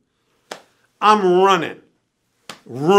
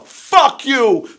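high, loud furious rant imitating Bill; screaming; 8 semitones higher, 7 dB louder than usual. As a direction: scream abuse at your brother for the police to hear. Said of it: "he starts screaming on his brother".

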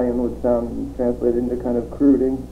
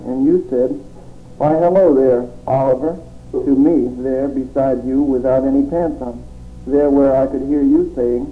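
rhythmic, declaiming poem read. Acted. Poet reading his surreal poem to the audience, declaiming.

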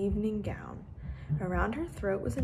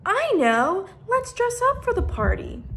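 much higher, louder burst of delight; excited idea; 13 semitones higher, 9 dB louder than usual. Acted. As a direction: jump up with a sudden idea. Violet suddenly jumped up.

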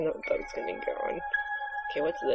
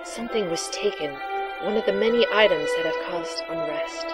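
hushed mystical seer; breathy oracle voice. Acted. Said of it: "your breathy, sexy voice for the oracle".

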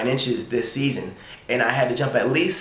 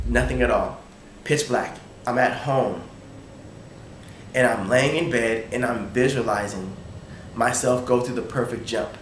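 slightly lowered, hushed storytelling with long pauses; calm, dreamlike; 3 semitones lower, 4 dB quieter than usual. Retold or imitated. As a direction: let it settle into a serene trance. Retells calm blackout while visualizing jump.

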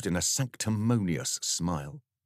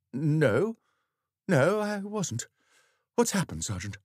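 nervous vicar; 10 semitones higher than usual. Acted.

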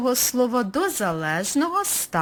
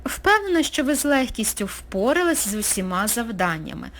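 upbeat praise. Real, not acted. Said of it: "cheerful praise".

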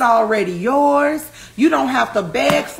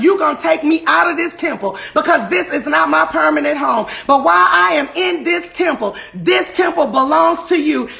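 rising preaching. Real, not acted. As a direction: build the sermon back up. Preaching builds again.

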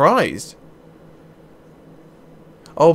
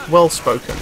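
lightly posh, a bit louder; well-spoken posh voice; 3 semitones higher, 5 dB louder than usual. Shown as a demonstration. Gamer testing an actor's voice, lightly well-spoken. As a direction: have another go at refined diction. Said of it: "He's got a very deep, posh voice".

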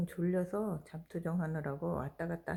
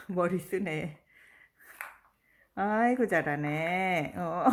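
loud, excited praise for a pet; talking to a dog; 7 dB louder, slower than usual. Real, not acted. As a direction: cheer the dog on loudly.

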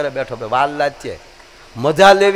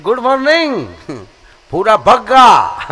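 mock greeting; 5 semitones higher, 4 dB louder, slower than usual. Greeting then Bhuro's name reply.

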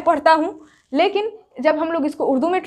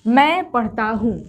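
slow reading demo; 2 semitones lower, slower than usual. Shown as a demonstration. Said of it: "नून गुन्ना ले जाकर चिपका दीजिए तो हूँ".

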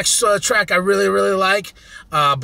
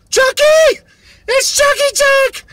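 excited shout; 6 dB louder, slower than usual. Retold or imitated. Recognizing his friend on track.

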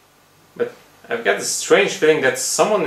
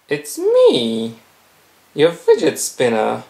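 talking toy voice; 2 semitones higher than usual. Acted. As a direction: give the object a creepy voice. Fidget spinner talks as creature.

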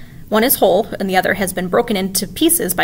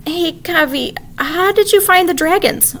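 sweet questioning; 10 semitones higher, 4 dB louder, slower than usual. A narrator's reading. Gently questioning little girl.

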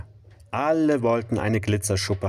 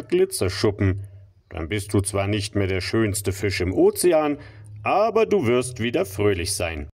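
extremely deep bass voice. Acted. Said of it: "mit tiefer Stimme".

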